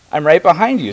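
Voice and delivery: loud, high storybook dinosaur; Rainbow Saurus. Acted. Rainbow Saurus answers the searching animals, loud character voice. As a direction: call out high and loud as the friendly creature. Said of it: "said the Rainbow Saurus".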